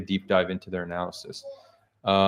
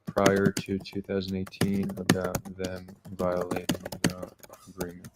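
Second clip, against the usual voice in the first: dictating while typing. Real, not acted. Host typing a follow-up query to the LLM, slow dictation. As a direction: read it out as you type, word by word. Typing a second question aloud.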